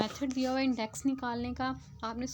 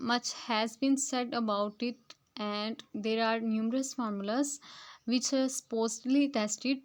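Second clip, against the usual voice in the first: slow, word-by-word reading of the English text; slow textbook reading; much slower than usual. Shown as a demonstration. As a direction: read each word out carefully to the class. Reads English passage aloud slowly. (धीमी गति से पाठ पढ़ना)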